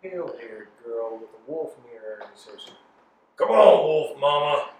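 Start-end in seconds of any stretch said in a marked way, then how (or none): 3.4-4.7 put-on old man voice.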